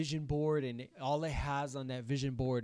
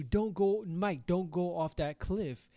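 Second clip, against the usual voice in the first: urgent warning, only half raised; higher-pitched mock cry of alarm; mock warning scream; 4 semitones higher, slower than usual. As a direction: imitate screaming a warning without really screaming. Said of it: "if I scream at you".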